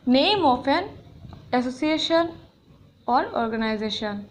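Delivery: slow, deliberate reading; teacher reading a rule heading, slow; slow dictation. Shown as a demonstration. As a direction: spell out the heading slowly.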